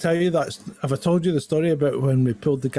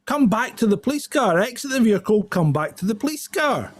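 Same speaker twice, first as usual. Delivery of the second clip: higher, commanding police call; PA announcement; 8 semitones higher than usual. Retold or imitated. Officer calling the driver back over the car PA. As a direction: order him back like a megaphone. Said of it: "And he's going".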